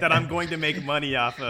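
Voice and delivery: chuckling mock quote; laughing mock quote. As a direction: giggle through the quote. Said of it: "It's like".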